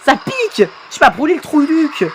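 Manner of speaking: high-pitched comic complaint; pained yelping. Acted. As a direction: yelp it as if burnt. Burnt in play fight. (plainte de douleur suraiguë)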